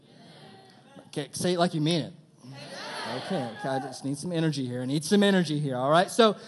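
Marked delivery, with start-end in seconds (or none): 1.1-6.4 fast, laughing push for energy; hyping the crowd. Real, not acted. Preacher asking the crowd for more energy, laughing and fast. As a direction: egg the room on. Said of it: "pushing the crowd".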